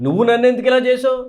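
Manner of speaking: booming divine rebuke, ఇలా pushed up; God asking back. Acted. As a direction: challenge them hard, like God turning the question. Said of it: "ఇప్పుడు ఆయన అడుగుతా ఉన్నాడు".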